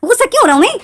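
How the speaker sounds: Hindi: गुस्से में ऊँची तीखी आवाज़; angry retort. Retold or imitated. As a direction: fire the question back in outrage. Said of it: "तुम गुस्सा क्यों हो रहे हो".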